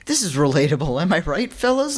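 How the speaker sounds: mock chummy author. Podcaster mimics author addressing the fellas, mock chummy. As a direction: imitate him fishing for agreement. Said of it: "he's writing it like".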